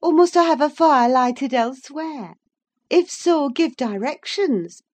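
high, teasing mock orders; mock his fussiness, high and animated; droll, half angry. A narrator's reading. Wife mocks husband's fastidiousness, droll high-pitched orders. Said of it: "half angry, half laughing at his fastidiousness".

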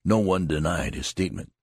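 usual speaking voice

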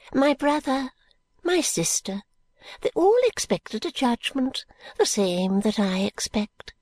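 put-on high, fluttery old lady, whispering bits; a rambling old woman clinging to hope; old Miss Flite.

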